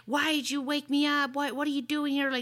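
high, loud offended questioning; angry quote. Retold or imitated. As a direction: snap the questions at her. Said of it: "she was all offended and pissed off".

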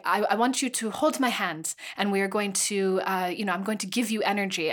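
lightly put-on French accent, mocking; half-hearted French accent for the mystic friend; bad French accent. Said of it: "This is my French accent. It's not very good".

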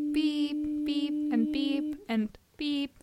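high sung-out censor beeps; bleeped out. Pretend. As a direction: stretch each beep like a bleep tone. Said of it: "I have to beep out the names".

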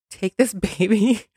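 asked through a laugh; chuckling as she asks; half-laughing request. Retold or imitated. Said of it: "I said".

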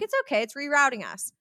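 high, sing-out mock reassurance; breezy reassurance. Imitates herself soothing annoyed driver.

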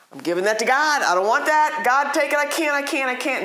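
high-pitched acted prayer of helplessness; urgent plea. Tempted believer handing the struggle to God, urgent plea. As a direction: plead as if handing over a burden.

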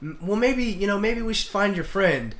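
a hint of a woman musing aloud; her suggestion. Woman at the bar hinting to find his friend, lightly voiced.

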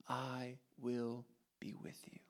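a soft whispered promise. Acted. God reassuring a frightened Moses in a hushed whisper. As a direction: breathe it as an intimate reassurance.

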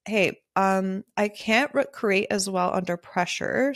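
gently measured, tactful request; calm. Retold or imitated. Photographer tactfully telling a client her limits, calmly. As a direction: explain it calmly, without any edge. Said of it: "even if I said it calmly".

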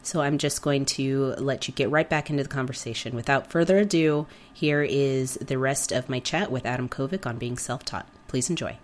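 hoarse from a cold; talking through a sore throat; sick voice. Real, not acted. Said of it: "Forgive my voice, I'm a little sick".

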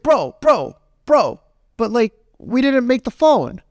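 high, insistent retold pleading; imitated friend pleading. Friend talks down the angry customer, high and insistent. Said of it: "calmed the dude down".

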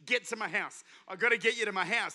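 laughing hallelujah, then urgent and pressing; imitating Jairus laughing along, then hurrying Jesus home; laughing with relief. Imitating Jairus laughing and hurrying Jesus. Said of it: "except Jairus is like".

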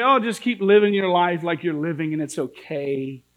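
a hint of lazy reassurance; mock easygoing preacher. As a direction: sneer at the comfortable preacher. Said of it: "I would just say".

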